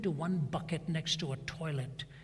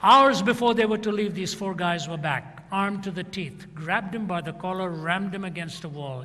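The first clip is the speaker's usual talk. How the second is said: much louder, driving narration; dramatic climax; 2 semitones higher, 10 dB louder than usual. A narrator's reading. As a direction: build it into a booming climax.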